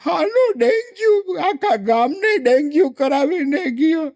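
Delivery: high, laughing lament; mock wailing. Ant widow lamenting to visitors, mock wail. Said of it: "એટલે કીડીબેન રડે".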